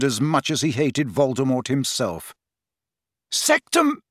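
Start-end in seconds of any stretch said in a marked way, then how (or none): 3.3-4.0 high, cut-off spell cry; shouted curse. A narrator's reading. Harry staggering at Snape, yelled curse. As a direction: hurl the curse in rage.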